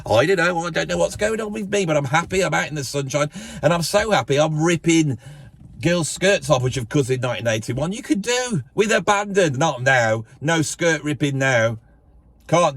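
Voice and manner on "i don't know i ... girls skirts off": higher, giddy and carefree; carefree happy. Pretend. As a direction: bounce through it like a carefree lad. Carefree happy self in 1981.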